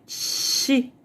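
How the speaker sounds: Xi, a hushed hissing sh sound; X sound demo. Shown as a demonstration. Teacher demonstrates the X sound to the class, whispered sh. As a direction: breathe out the sh of Xi without voice. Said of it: "O som dela é de X".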